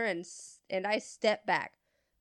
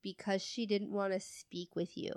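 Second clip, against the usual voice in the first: softly held-back customer service tone; restrained, polite clerk reply; 6 dB quieter than usual. Retold or imitated. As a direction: keep it soft and professional. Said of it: "my best customer service voice".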